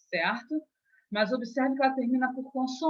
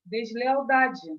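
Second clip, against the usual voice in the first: slow, careful word; 2 semitones higher, slower than usual. Shown as a demonstration. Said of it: "formando uma nova palavra".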